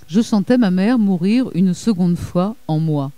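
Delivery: a lecturer reading a grieving memoir passage, measured and earnest; grave reading. Acted. Lecturer reading Appelfeld's memoir to the audience, grave literary reading. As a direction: let the mother's loss weigh on each line.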